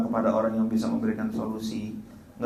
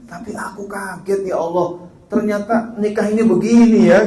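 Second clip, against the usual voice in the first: mock surprise; 6 semitones higher than usual. Husband surprised at marriage.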